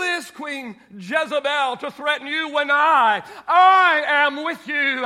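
loud, calling out Elijah's name; God reminding Elijah, loudly; emphatic calling out. Acted. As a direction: call to him with rising force.

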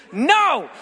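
loud, high snap of "No!"; sharp no. Retold or imitated. Annoyed customer snapping at the joking waiter, loud. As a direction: bark it back at him, fed up.

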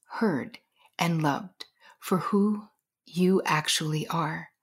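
sincere, hushed encouragement. Real, not acted. Sincere address to listeners.

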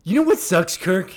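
loud, angry-ish shout. Shown as a demonstration. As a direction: yell it at Kirk. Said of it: "repeats louder".

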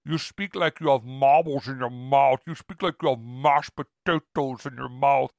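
slow, put-on German accent; mock German accent, drawn out. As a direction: imitate a German girl, slowly and deliberately. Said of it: "I met this German girl, and she's like".

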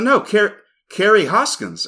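high, loud chirpy "hey, it's Carrie"; bubbly caller. Retold or imitated. Retelling Carrie's surprise phone call, high bubbly greeting. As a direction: pitch way up like an excited caller. Caller insists on her name.

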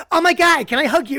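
high, loud gushing plea; gushing fan. Retold or imitated. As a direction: squeal it like a starstruck fan. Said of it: "She goes".

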